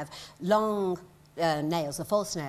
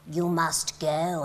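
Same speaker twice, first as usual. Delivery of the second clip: dramatic line; 3 semitones lower, much slower than usual. Retold or imitated. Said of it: "I said to him".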